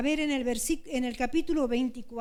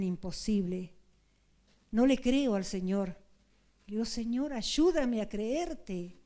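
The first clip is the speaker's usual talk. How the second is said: earnest prayer. Acted. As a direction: pray it aloud, begging for faith. (oración suplicante)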